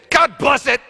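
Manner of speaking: sudden high loud outburst; exasperated exclamation. Retold or imitated. Someone swearing politely at a mishap, loud and high. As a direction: blurt it in mock frustration. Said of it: "sometimes I hear people say".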